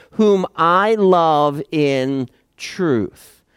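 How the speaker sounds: slow, weighted "whom I love in truth"; solemn slow reading with "I" stressed. Shown as a demonstration. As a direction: lean into "I" and draw the line out. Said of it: "The I is emphatic".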